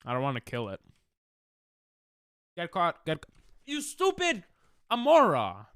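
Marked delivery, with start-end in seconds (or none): 2.6-5.7 a high, exasperated yell at the Pokemon; frustrated outburst. Real, not acted. Streamer yelling at the Pokemon that broke free, frustrated outburst. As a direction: snap at it for breaking out.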